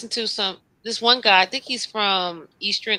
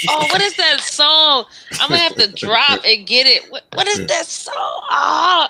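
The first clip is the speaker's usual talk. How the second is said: frustrated; 4 semitones higher, 5 dB louder than usual. Real, not acted. Frustrated trying to recall song.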